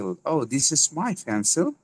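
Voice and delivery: pencil with P puffed like ফ, said slowly; slow example sentence, airy P on pencil; aspirated P. Shown as a demonstration. Teacher using the word in a sentence, aspirated P. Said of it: "ফ উচ্চারণ করলে".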